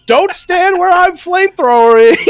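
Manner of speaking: high, loud offhand warning; casual warning. Retold or imitated. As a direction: toss off the warning mid-rampage. Horner warning while flaming.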